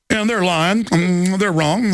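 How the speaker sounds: a lightly smug, self-satisfied aside; imitating a smug president; smug gangster satisfaction. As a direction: savor the put-down like a mob boss. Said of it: "this little gangster satisfaction".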